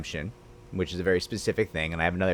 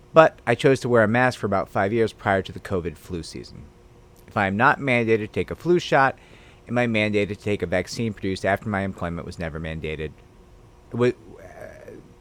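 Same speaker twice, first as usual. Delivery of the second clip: ordinary talk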